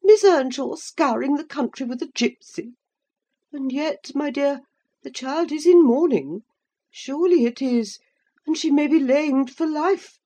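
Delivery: high, agitated lady's voice; fussy old lady. A narrator's reading. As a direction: fret like a shocked matron. Mrs Linton exclaims to husband.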